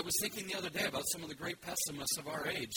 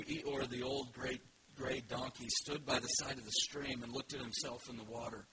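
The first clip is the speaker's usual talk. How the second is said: storybook reading; 3 semitones lower than usual. A narrator's reading. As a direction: read it like a bedtime story, unhurried. Reading Winnie the Pooh aloud.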